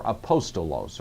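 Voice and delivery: aPOStolos, stressed on POS; stress on second syllable. Shown as a demonstration. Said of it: "several ways you might pronounce it".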